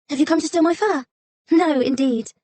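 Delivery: high, small frightened fox voice; timid little fox. A narrator's reading. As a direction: play a meek fox shrinking back. Alternating girl and fox voices.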